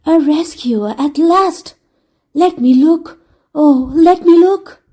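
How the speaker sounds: slow, rising hopeful voice; a hint of a sad egg brightening; eager mournful egg. Humpty Dumpty to his rescuer, mildly hopeful.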